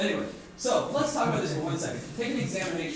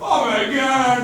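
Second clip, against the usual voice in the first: shocked crowd cry; 5 semitones higher, 11 dB louder, much slower than usual. Retold or imitated. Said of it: "everyone's like".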